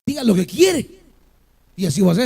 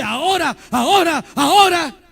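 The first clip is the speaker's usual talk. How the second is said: eager believer; 4 semitones higher than usual. Retold or imitated. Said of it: "y dice".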